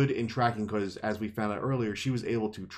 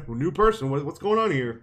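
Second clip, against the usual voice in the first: higher, louder mock-startled questioning; nervous horse; 5 semitones higher, 4 dB louder than usual. First horse spotting a new person, mock nervous. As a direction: voice a jittery animal, lightly hammed-up. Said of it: "get a little nervous".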